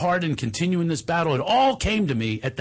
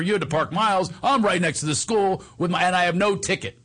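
higher-pitched playful gloating; teasing; 5 semitones higher than usual. Retold or imitated. Making fun of the ex-wife for parking miles away, teasing. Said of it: "I'm making fun of her".

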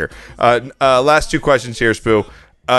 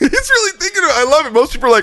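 high, laughing fast talk; faster than usual. Real, not acted. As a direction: laugh it out with delight. Laughing at long pause.

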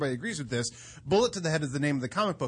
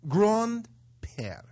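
French accent; 4 semitones higher than usual. Shown as a demonstration. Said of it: "phrases that sound good in French".

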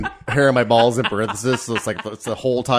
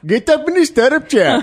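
mock doctor; 12 semitones higher, 4 dB louder than usual. Voicing the doctor, high.

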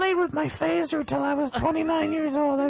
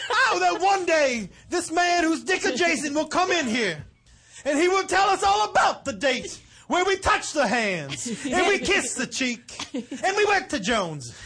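mock orator; 3 semitones higher than usual. Parodying a famous speech.

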